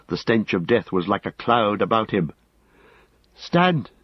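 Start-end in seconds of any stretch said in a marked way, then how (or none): 3.4-3.9 high, urgent command; high-pitched desperate call; desperate cry. A narrator's reading. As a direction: cry out desperately to halt a companion, pitch leaping up. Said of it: "he cried desperately".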